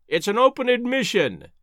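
high-pitched scornful exclamation; crying out. A narrator's reading. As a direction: cry it out in derisive triumph. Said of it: "he cried".

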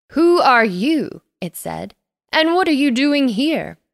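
put-on loom over the girls with a suspicious question; grumpy creature voice; sock monster. A narrator's reading.

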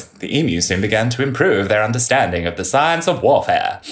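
lightly voiced old soldier quote; a hint of a gruff soldier reporting. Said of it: "I should do this in the voice".

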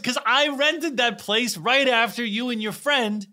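high, excited retold explanation; loud Polish man. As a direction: act out a loud, animated Polish fan. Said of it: "He's loud".

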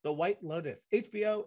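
mock award-show announcer; award announcer read. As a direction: read the nominees like an awards host.

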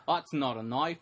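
mock Aussie movie line; hammed-up Australian vowels; Australian accent. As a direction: imitate an Australian tough guy. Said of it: "Australians always go".

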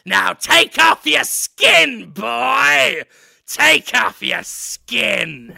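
loud, slow shouted order; commanding shout. Acted. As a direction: bellow the command at the boy. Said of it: "looks at Daniel Radcliffe and says".

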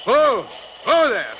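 slow, drawn-out halting call; calling to a horse. Acted. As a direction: rein the horse in with your voice. Sleigh driver halting the horse.

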